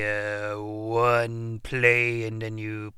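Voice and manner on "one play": softer, muttered command; mumbled under the breath; quiet. Acted. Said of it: "I'm supposed to say".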